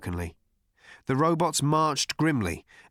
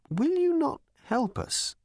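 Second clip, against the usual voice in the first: much higher, slow, plaintive plea; pleading old man. Acted. Slartibartfast pleading with Zaphod not to go, plaintive. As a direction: beg them not to leave.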